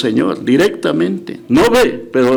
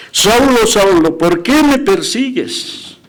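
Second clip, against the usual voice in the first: voice of the Lord; 5 semitones higher, slower than usual. Acted. Preacher repeating Jesus's call to Saul, high and slow. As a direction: call the name out, then ask it slowly.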